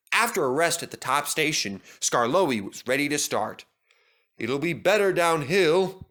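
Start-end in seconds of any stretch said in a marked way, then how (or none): 4.4-6.1 hopeful. Acted. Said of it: "he thought".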